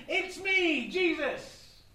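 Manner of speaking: loud, high, theatrical announcement; triumphant reveal. Acted. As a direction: reveal yourself grandly. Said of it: "the tramp jumped up and went".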